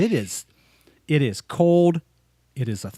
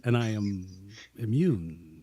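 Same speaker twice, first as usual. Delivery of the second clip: deadpan Spock; 6 semitones lower, 8 dB quieter than usual. Retold or imitated. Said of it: "it's the way he says it".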